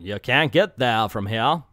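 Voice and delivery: lightly put-on Northern US accent; mock Northern accent. Reviewer guessing at the intended dialect, mock Northern accent. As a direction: try a rural Northern accent on it. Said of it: "she's going up north".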